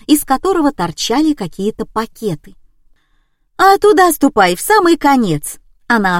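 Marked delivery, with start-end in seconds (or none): 3.6-5.6 a much higher, louder, chatty nurse voice; old nurse. A narrator's reading. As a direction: eagerly direct the lost visitor.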